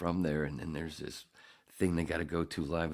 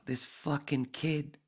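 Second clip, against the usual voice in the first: 1 disgusted; 11 semitones higher, 4 dB louder, slower than usual. Real, not acted. Ranting about actor, high mocking.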